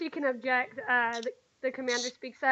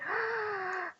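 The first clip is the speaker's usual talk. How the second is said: soft high acted gasp; child's gasp; 8 semitones higher, 9 dB quieter than usual. Little girl reacting to a prank idea, gasping.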